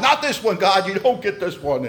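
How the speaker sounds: indignant bargaining with heaven; mock defiant plea. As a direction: protest skyward, hammed-up. Shakes fist at God, pleading.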